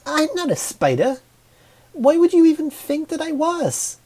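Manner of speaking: high, loud, indignant yell; yelling back. Acted. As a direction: shout down the insult, offended. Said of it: "she yelled back".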